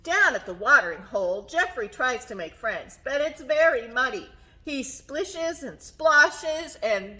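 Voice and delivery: lively storytime reading with stretched key words; reading to children. A narrator's reading. Teacher reading giraffe picture book to children, animated storytelling. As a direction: read it expressively, lingering on the describing words.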